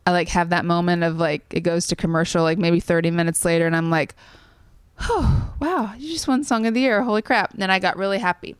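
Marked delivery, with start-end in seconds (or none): 5.0-7.5 dawning amazement. Retold or imitated. Retelling realization that she won.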